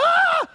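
very high, loud shriek; startled shriek. Retold or imitated. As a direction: shriek as if you stepped barefoot on something. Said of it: "I'm sure I shrieked. I'm like".

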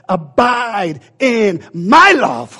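drawn-out, slow and solemn; slow reverent quote. Acted. Preacher slowly voicing Jesus to the church, solemn. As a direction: let each word hang.

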